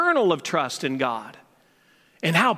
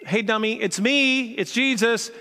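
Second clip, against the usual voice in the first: slightly raised, teasing reassurance; casual mock exasperation; 3 semitones higher than usual. Jesus to the scared disciples on the boat, playfully exasperated. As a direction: lightly chide a silly friend.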